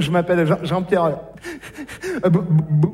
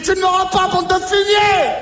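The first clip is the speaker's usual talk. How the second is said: defiant yell; 10 semitones higher, 4 dB louder than usual. Acted. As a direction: hurl the insult at him. Defies alien through the door.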